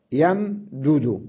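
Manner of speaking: يمدد said very slowly, yam-du-du; يمدد with two separate moving dals; slow demo. Shown as a demonstration. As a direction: stretch يمدد syllable by syllable. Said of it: "والدالان متحركان".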